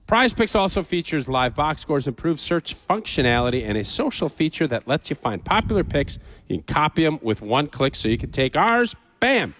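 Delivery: ad read. Acted. Host reads sponsor ad.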